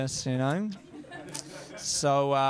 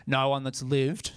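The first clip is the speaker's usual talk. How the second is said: deadpan stepdad; 3 semitones lower, slower than usual. Retold or imitated. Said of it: "And he said".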